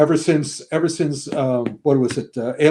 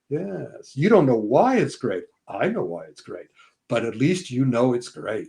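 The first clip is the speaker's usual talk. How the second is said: softer, knowing aside to himself; muttered aside; 4 semitones lower, 5 dB quieter than usual. Retold or imitated. Film buff muttering behind the moviegoers, softer. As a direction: mutter it smugly under your breath. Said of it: "I'm standing behind you going".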